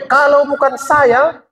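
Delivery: high-pitched, self-important boast; proud boasting. Acted. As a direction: imitate someone bragging about themselves. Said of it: "Bangga dia".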